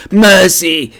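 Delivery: high, loud cry for mercy; horrified plea. A narrator's reading. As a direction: beg the phantom in horror. Horrified Scrooge begs the phantom.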